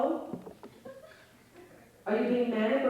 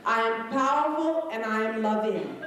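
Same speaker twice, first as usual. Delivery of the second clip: firm declaration, weight on powerful; believing it. Shown as a demonstration. Comic urging the crowd to believe it, firmly. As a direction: say it like you believe it. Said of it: "say it like you fucking believe it".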